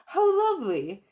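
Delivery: high, loud, thrilled cry; delighted girl. Acted. Polly thrilled at the rings, high and loud. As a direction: gush over the pretty rings.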